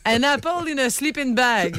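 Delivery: laughing through slow broken English; a laughing tourist groping for the English; laughing quote. Retold or imitated. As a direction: giggle while fumbling for the words. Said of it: "elle dit".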